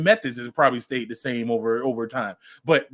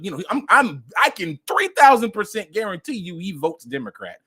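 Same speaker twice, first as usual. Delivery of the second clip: normal talking voice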